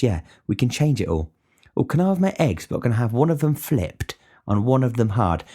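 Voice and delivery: high, mincing mock voice of a fussy diner; mocking fussy customers. Cook mocks picky breakfast customers to viewers, high mincing parody.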